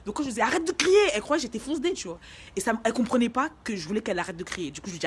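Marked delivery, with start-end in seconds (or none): 0.4-1.0 high, loud plea to stop; retold yelled order. Telling her friend to stop screaming, acted shout. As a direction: raise your voice to silence someone.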